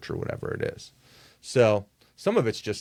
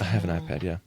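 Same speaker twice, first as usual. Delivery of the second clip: whisper; faster than usual. Real, not acted. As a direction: whisper back, amused. Replies to whispered tease.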